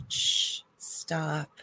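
soft unvoiced shh, then a barely voiced stop; retold nurse's whispered hush. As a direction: hush him gently like a nurse calming a patient. Nurse hushes the jumper.

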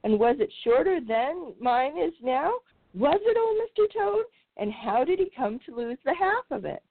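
high, eager little mouse voice; eager young mouse. Acted. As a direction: ask like a curious small mouse. Young mouse questioning old toad.

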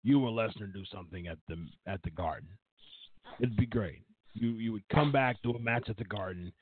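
lightly voiced boss making a pitch; a hint of a promoter imitation; Vince. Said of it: "Vince goes".

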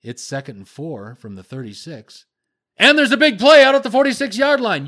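mock announcer going from two to nine at once; jerky play-by-play. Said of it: "Tessitore's is".

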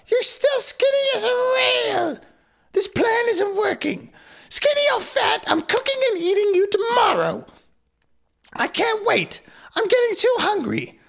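high cackling witch voice. Acted. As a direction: squeal it like a hungry witch. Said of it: "Oh, hold on".

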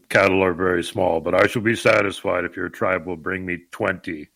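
lightly voiced dopey giant; dopey cartoon bellow. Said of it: "replied the giant".

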